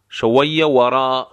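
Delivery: شویه ورا with each و made by puckered lips; rounded waw. Shown as a demonstration. Teacher showing how waw is made, rounded waw in شویه ورا.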